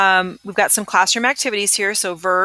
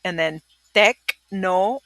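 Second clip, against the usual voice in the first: broken into parts; slower than usual. Shown as a demonstration. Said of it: "So let me hear you say it".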